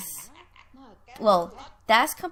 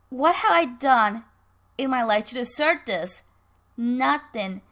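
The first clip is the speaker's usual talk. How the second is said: bitter accusation; 2 semitones higher, 5 dB louder than usual. Acted. Bitter accusation in acted quarrel.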